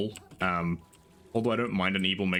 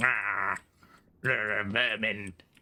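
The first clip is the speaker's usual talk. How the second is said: growled dinosaur voice with a snarl; 2 semitones higher than usual. Comparing two voice actors' takes on a character, in a snarly Dinobot voice. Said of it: "it's very snarly".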